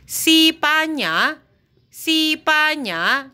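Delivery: slow high rising "Sipanya"; Mandarin reading. Shown as a demonstration. Teacher reads "Sipanya" for Spain. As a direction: draw out "Sipanya" with a rise.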